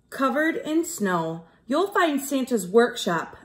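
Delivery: put-on lively sing-song read to children; bouncy rhyming story voice for kids; storybook narration. A narrator's reading. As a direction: read it like a rhyming picture book to a class. Teacher reads rhyming storybook.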